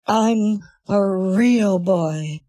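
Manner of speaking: very slow, every word drawn out; slow demo line. Shown as a demonstration. Showing the AI voice the sentence, very slow. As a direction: spell it out slowly for the voice to copy. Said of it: "I want you to say the sentence".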